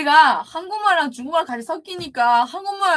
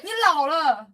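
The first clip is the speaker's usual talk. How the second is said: aegyo voice; 5 semitones higher than usual. Real, not acted. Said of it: "using her Aegyo voice".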